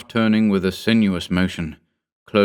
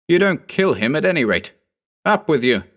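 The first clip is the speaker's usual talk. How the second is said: firm command; 8 semitones higher than usual. Acted. Narrator stops the killer.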